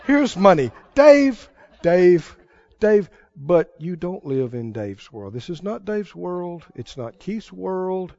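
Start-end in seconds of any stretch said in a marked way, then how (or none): 0.0-3.1 softer, cooing oh Dave; a hint of mock adoration, laughing; mock fawning crowd. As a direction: fawn over Dave like a doting crowd. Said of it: "everybody's supposed to go".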